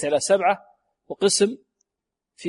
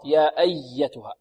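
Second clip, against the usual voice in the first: slow, with pressure on the doubled y of "أيتها"; pressed doubled ya; 2 semitones lower, slower than usual. Shown as a demonstration. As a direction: lean on the yy inside "أيتها". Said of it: "والنبر هو الضغط". (نبر الياء المشددة في "أيتها")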